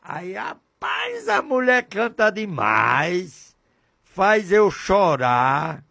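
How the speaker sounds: a lightly voiced young man, slow and dreamy. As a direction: act out the lad, drawn out. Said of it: "eu disse assim / ele disse".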